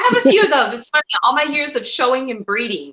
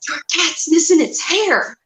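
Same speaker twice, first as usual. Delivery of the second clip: put-on slightly higher, slow kid's announcement; lightly voiced little kid; 6 semitones higher, slower than usual. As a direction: lightly imitate a six-year-old, drawing the words out. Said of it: "he was probably about six".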